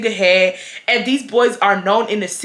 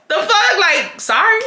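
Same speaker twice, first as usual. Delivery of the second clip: laughing; 9 semitones higher than usual. Real, not acted. Laughs at her own callousness.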